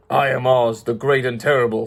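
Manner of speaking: half-hearted monster roar; mild beast roar. Acted. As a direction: announce yourself like a huge beast, lightly played. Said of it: "in a voice that was one great roar".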